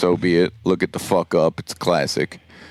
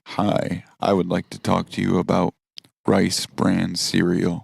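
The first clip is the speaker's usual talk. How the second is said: monotone host; 4 semitones lower, 4 dB quieter than usual. Pretend. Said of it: "talk show monotone".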